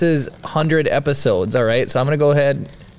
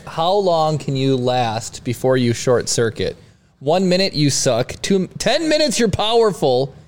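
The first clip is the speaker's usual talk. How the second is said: hyped ad read. Acted. Reads box copy hyped.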